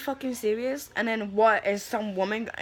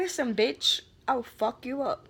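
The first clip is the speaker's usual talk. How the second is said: pretend tough threat; 3 semitones higher, slower than usual. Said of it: "my fucking attitude".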